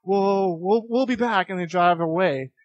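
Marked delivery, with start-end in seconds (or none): 0.0-1.5 mildly raised, hesitant backing down; imitated nervous retreat. Intimidated rivals back off.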